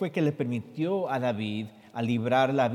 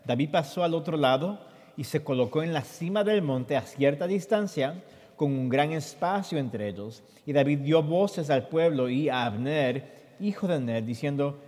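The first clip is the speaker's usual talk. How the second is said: scripture reading; 2 semitones higher, 3 dB louder than usual. Acted. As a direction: read the verses out for the listeners. Reads Spanish scripture translation.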